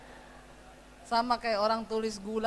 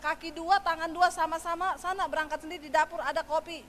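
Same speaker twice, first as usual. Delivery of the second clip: louder, higher mock yell at husband; retold yell; 5 semitones higher, 5 dB louder than usual. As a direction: shout it back at him, fed up. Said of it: "Lalu saya teriak". (teriakan kesal ke suami)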